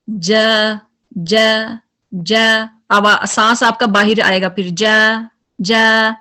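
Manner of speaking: जा with the air flowing on; wrong जा with continuous breath; breath continued. Shown as a demonstration. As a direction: let the breath run out on जा. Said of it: "अगर continue रखते हैं सांस को".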